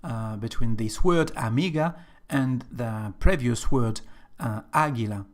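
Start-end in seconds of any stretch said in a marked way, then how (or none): 1.3-1.9 "amiga" stressed on "mi"; second-syllable stress. Shown as a demonstration. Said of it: "the stress in this word amiga is on second syllable". 4.7-5.2 "águila" stressed on its first syllable. Shown as a demonstration. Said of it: "you can hear the difference".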